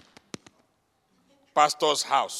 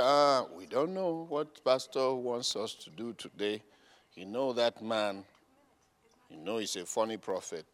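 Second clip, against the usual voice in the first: lower, softer gossip voice; mock gossiping members; 8 semitones lower, 7 dB quieter than usual. Members gossip about the pastor in a soft low mutter. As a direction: murmur like idle church folk. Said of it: "lazy members voiced".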